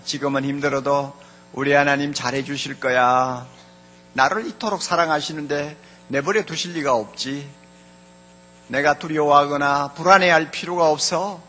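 low, softened voice of trust; reassuring self-talk. Acted. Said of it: "이런 소리를 합니다".

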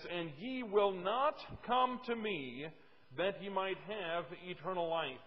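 slow, deliberate Bible verse; scripture reading. Acted. Preacher reads the key text to the congregation, slow scripture reading. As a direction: read it out slowly, word by word.

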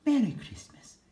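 high, loud holiday cheer. Acted. George greets everyone at Christmas, loud and high cheer. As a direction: shout it out with joy. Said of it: "George cheered".

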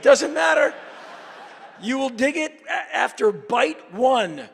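mock assured. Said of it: "I said".

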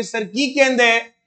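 a playful Punjabi student asking what sir is saying; Punjabi question. Pretend. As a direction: ask it in Punjabi, puzzled. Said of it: "आप बोलोगे". (पंजाबी में हैरान होकर पूछना)

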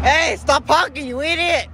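high angry yell; yelling angrily. Real, not acted. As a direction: yell at the driver. Yelling at a honking car.

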